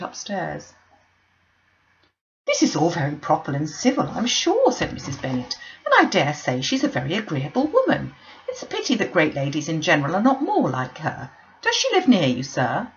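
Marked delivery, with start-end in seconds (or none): 2.5-4.7 lightly voiced gushing matron; eager, chattering mother; Mrs Bennet. 5.8-12.9 lightly voiced gushing matron; eager, chattering mother; Mrs Bennet.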